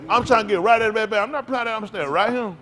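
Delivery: excited storytelling. Real, not acted. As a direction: relive the game with rising excitement.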